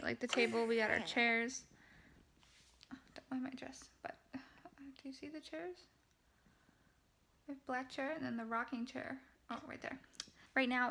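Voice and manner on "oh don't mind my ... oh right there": breathy hushed whisper. Real, not acted. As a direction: keep it to a whisper. Whispering near sleeping baby.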